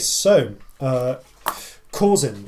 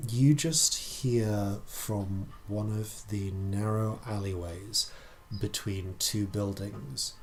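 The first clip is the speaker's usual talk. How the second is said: slow, measured narration, trailing softer; game master scene setting; 3 semitones lower, 6 dB quieter, slower than usual. Acted. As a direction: set the scene slowly, letting it drop away. Game master sets eerie scene.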